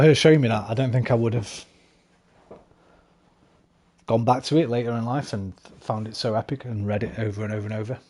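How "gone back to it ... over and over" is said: breathless, running out of air; short of breath. Real, not acted. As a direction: push through with little breath. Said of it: "A bit short of breath there".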